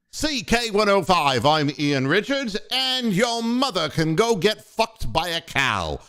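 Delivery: imitated British DJ reading a station ID; lightly put-on British broadcast voice; British accent. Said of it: "in the British accent".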